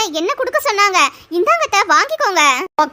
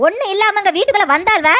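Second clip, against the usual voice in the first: normal talking voice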